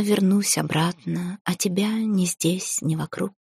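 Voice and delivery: slow, softening poem reading; slow, fading recital of a love poem. Acted. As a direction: recite the verses slowly, letting the line ends fade. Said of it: "я начала читать вслух стих".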